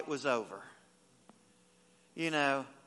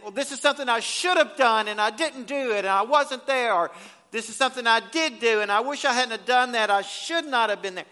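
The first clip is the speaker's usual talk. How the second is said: regretful inner voice; 4 semitones higher, 4 dB louder than usual. Retold or imitated. Voicing a regretful believer.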